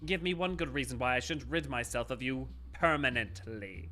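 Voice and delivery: cold scornful villain. Acted. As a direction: threaten him with contempt. Villain threatens his underling.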